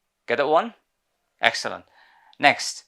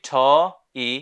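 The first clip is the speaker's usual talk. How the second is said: teacher in an American accent with the r at the end; 3 semitones higher, 6 dB louder, much slower than usual. Shown as a demonstration. Teacher showing the class the American teacher, with the r. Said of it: "in American English".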